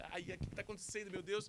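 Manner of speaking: high-pitched, panicked cry.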